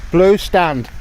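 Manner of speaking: firm spoken order to the dog; firm command. Shown as a demonstration. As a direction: give the order firmly. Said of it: "You see what I mean?".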